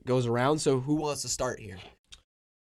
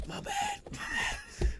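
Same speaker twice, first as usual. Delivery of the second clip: squeaky; 5 dB quieter, much slower than usual. Real, not acted. Squeaky apology.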